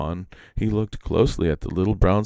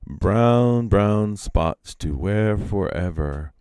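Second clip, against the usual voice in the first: slow, drawn-out voice from below; a distant, dragged-out chant; faraway voice; 2 semitones higher, much slower than usual. Acted. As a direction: call up slowly from under the branches. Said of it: "A faraway voice came up through them".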